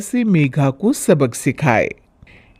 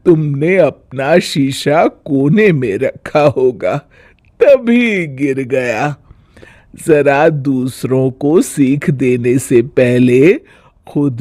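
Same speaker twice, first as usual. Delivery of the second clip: wise mother-in-law; 2 semitones lower, slower than usual. Acted. Mother-in-law to bahu, calm pointed rebuke. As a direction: calmly teach her a lesson.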